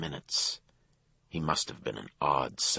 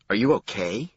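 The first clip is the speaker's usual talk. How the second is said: concerned counterman; 6 semitones higher, 6 dB louder than usual. A narrator's reading. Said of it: "The counterman was concerned".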